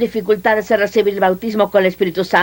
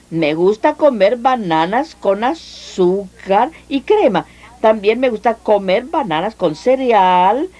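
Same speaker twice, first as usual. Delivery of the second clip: slow, deliberate sentence. Shown as a demonstration. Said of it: "Ahora ven la diferencia".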